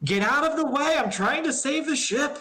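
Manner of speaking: urgent high-pitched yelling. A character arriving with a bundle of coil, telling others to clear the way, yelling. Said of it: "And he's yelling".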